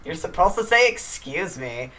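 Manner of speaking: slightly annoyed. Retold or imitated. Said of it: "In a slightly annoyed voice".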